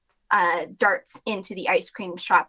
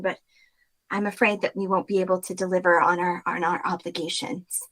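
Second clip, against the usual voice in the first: weary apology. Acted. Weary clerk apologizes formally.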